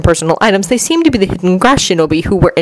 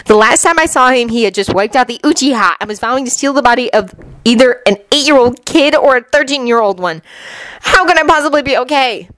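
higher pitch, rising agitation; lightly voiced upset Anko; 5 semitones higher than usual. Anko explains why she isn't okay, mildly agitated. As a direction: build to an exasperated question.

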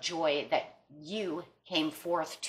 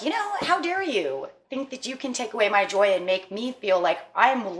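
higher, pitch jumping on who are you; indignant outburst; 4 semitones higher than usual. Retold or imitated. Reader voices the hurt person confronting a bully, indignant. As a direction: voice the anger at whoever steals your joy. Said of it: "And it's like".

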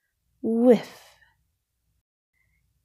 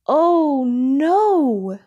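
higher, louder "Oh no!" in a sudden fright; alarmed cry; 6 semitones higher, 4 dB louder than usual. Acted. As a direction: cry out as the kite is lost. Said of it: "screamed Mole and Bear".

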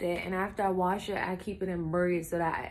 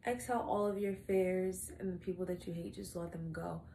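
mock guided breathing; 4 semitones lower, 11 dB quieter than usual. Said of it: "Breathe with me".

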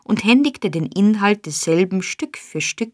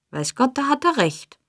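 hastily; 7 semitones higher than usual. A narrator's reading. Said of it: "meinte Nancy hastig hervortretend".

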